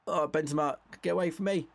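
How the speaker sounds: exasperated cry. Real, not acted. Shouting at opponent in game.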